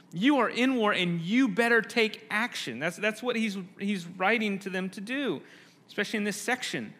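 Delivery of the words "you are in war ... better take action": urgent charge. Retold or imitated. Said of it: "Paul wants them to know".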